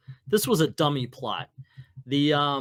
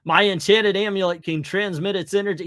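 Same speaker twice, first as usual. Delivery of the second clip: heroic Doctor Strange voice; 5 semitones higher, 7 dB louder than usual. Acted. Doctor Strange announcing his plan to Mordo, grand heroic voice. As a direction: speak like a noble comic-book sorcerer. Hero voice, comic read.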